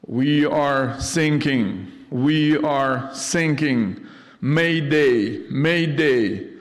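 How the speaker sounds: slow, deliberate distress call over the radio; a sailor's radio mayday, drawn out; mayday caller. Retold or imitated. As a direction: call for help as if your boat is going down. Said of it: "the voice from the radio saying".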